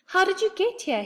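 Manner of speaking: high, loud amazed question; astonished. A narrator's reading. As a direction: ask in disbelief. Astonished boy asks.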